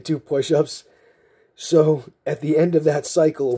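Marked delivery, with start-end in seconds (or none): 0.0-0.8 imitating a drill sergeant's instant comeback; quick-fire order. Storyteller repeating the sergeant's snap reply, quick-fire order. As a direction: fire the order straight back. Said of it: "so fast the way he said".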